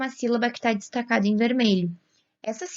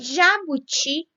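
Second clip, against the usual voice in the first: jabuti slow and higher, final TI stressed; 5 semitones higher, much slower than usual. Shown as a demonstration. Teacher showing a last-syllable stress, jabuti slowly with stressed "ti". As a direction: draw out jabuti, landing on the "ti". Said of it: "tem a última sílaba como a sílaba tônica".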